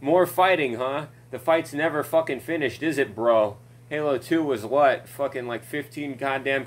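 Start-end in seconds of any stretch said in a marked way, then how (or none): 0.0-3.6 sarcastic mockery. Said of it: "it's just like".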